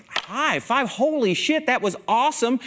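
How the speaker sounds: high-pitched gushing praise; acted-out burst of backstage excitement; excited congratulation. Speaker greeting the keynote coming off stage, excited congratulation. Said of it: "And I'm like".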